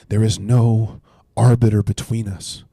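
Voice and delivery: slow, deliberate reading of scripture; read slowly. Shown as a demonstration. Pastor reading Job's line slowly to his viewers, deliberate. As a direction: give every word its weight, unhurried. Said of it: "I wanna read it slowly".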